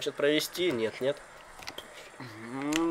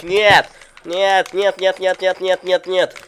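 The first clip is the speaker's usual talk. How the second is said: shouting no; 6 semitones higher, 14 dB louder, slower than usual. Real, not acted. Shouting no at the screen.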